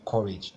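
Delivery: "Courage" with COU given the weight; first-syllable stress. Shown as a demonstration. Teacher showing how two-syllable nouns go, stress on COU. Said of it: "so the stress will be on the".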